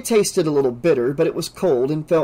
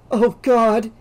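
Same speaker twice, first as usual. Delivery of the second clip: higher and louder, a sudden dawning horror; shocked realization; Oh God, sharp and alarmed; horrified gasp; 8 semitones higher, 4 dB louder than usual. A narrator's reading. Realizes she's been drugged.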